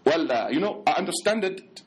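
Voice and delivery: hesitant, put-on Arab-accented English; mock Arab accent. Convert answering a greeting, in a mock Arab accent. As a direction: imitate a Brooklyn man faking an Arab accent. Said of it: "brother spoke English, Arabic worse than Arabs".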